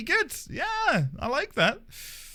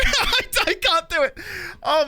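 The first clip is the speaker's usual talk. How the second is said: real laughing; 4 dB louder than usual. Real, not acted. Fumbling camera, laughing.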